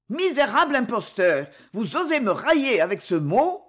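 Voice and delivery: trembling indignation. Acted. Varvara accusing the count, shaking with outrage. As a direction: fling the insult at him. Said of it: "frémissante d'indignation".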